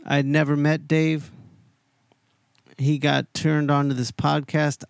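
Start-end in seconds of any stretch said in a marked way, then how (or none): none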